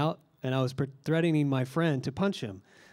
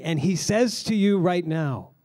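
slow, weighty and raised; urgent present; 4 semitones higher, 4 dB louder than usual. Shown as a demonstration. Pastor voicing Matthew to the congregation, slow urgent stress. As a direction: stress right now, slowly. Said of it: "It's almost like Matthew is saying".

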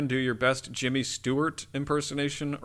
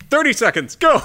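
game show countdown; 11 semitones higher, 8 dB louder than usual. Pretend. Host calls a time limit.

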